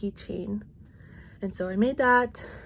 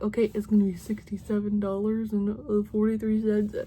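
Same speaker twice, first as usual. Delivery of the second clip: odd put-on voice. Real, not acted. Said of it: "I don't know why I said it like that".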